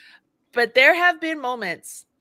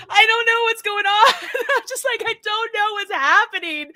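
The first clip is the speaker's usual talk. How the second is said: high, laughing-crying helplessness; helpless, half laughing half crying; teary confusion; 9 semitones higher, 3 dB louder than usual. Retold or imitated.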